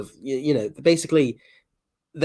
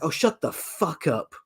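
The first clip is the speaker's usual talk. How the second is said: slow, quieter, fed-up put-on voice; mock dismissive; 3 semitones higher, 3 dB quieter, slower than usual. Replying to an entitled person, slow and fed up. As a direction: brush them off with weary contempt. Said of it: "And you're just like".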